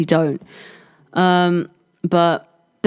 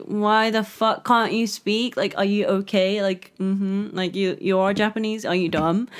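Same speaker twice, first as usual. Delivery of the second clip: quiet baffled clerk; 5 dB quieter than usual. Retold or imitated. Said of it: "They were like".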